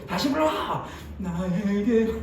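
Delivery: high barked command; shouted retake order; mock yelled order. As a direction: demand the song again. Teacher yelling command.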